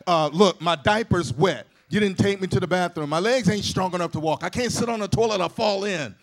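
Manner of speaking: loud mock baby demanding its needs; talking baby. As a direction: play a baby lecturing its parents, full voice. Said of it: "They don't come out talking about".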